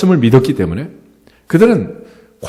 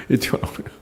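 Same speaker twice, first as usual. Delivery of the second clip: laughing; 13 dB quieter, faster than usual. Real, not acted. Laughing about accent slipping out.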